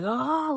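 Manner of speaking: high, loud retold "oh"; mock cathartic wail; imitated purging cry. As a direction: mimic a cry bursting out.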